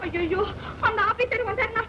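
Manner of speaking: melengking tinggi, meratap seperti ratapan duka; wailing lament. Acted. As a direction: meraung sedih, suara tinggi dan merintih. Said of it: "ஏன் இப்படி ஒப்பாரி வைக்கிற?".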